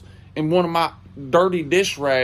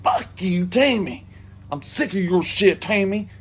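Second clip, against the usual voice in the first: put-on drunk rant at the ex, rising to a high wail; mock drunk screaming; 7 semitones higher than usual. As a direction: rant like a heartbroken drunk, cracking high at the end. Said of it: "screaming at his damn ex-girlfriend".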